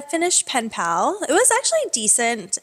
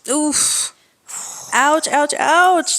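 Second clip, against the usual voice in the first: playful ouch, louder; mock pain; 2 semitones higher, 4 dB louder, much slower than usual. Real, not acted. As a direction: wince out loud. Reacting to forty dollars.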